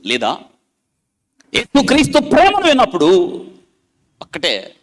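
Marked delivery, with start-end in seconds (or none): 1.5-3.4 much higher, loud preaching lift. Acted. Preacher lifts his voice to the listeners about hearing Jesus' love. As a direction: swell on Christ's love.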